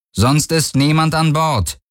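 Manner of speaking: a touch of unease under a firm claim; slightly uncertain. A narrator's reading. Captain lying to the stranger, slightly uncertain. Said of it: "Hauch von Unsicherheit in der Stimme".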